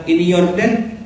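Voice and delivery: sassy drag queen. Retold or imitated. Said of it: "tapi gayanya gaya bencong".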